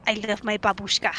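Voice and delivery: mock Russian accent. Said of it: "speaking with a Russian accent".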